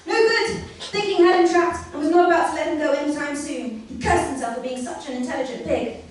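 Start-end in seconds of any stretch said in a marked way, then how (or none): 0.1-3.8 excited. A narrator's reading. Narration caught up in panic.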